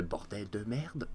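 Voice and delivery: badly faked France French accent; slow, mock France French swearing. Shown as a demonstration. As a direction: try a French accent, clumsily. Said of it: "j'essayais de faire un accent français".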